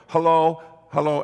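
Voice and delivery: calling out. Retold or imitated. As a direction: call out at the door. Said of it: "And I knock, I go".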